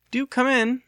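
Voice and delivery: high, bright welcoming call; a gentleman inviting his visitor in; polite invitation. A narrator's reading. Lucas politely inviting Missus Bittersworth inside. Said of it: "he invited".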